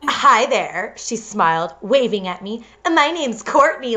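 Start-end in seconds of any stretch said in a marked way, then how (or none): 0.0-0.9 sweet fake cheerleader greeting; valley girl cheerleader. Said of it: "bitchy cheerleader voice". 2.9-4.0 put-on valley girl cheerleader. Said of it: "bitchy cheerleader voice".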